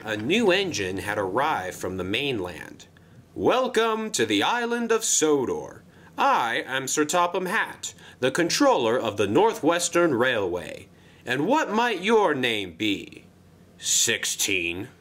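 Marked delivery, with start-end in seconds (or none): 3.3-13.2 higher, cheery boss voice; a jolly controller pitching a job; Sir Topham Hatt voice. Acted. Controller coaxing Wilbert into the job, cheery and high. 13.8-14.9 low grumbled reply; grumbling. Acted. New engine grumbling his name to the controller, low and sullen. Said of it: "grumbled the engine".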